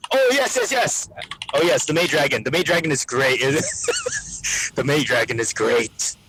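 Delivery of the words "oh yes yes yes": high-pitched burst of real excitement; light up as it comes back; excited recall. Real, not acted. Remembering the forgotten anime, excited.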